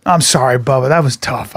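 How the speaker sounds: low, heartfelt condolence; sincere sympathy. Retold or imitated. Friend consoling him after the break-up, sincere sympathy. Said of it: "and he meant it".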